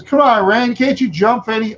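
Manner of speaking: put-on high-pitched goading kid voice; Eddie. Neighbor kid urging a friend to jump, high goading voice. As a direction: egg him on, high and insistent. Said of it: "Eddie, Eddie says".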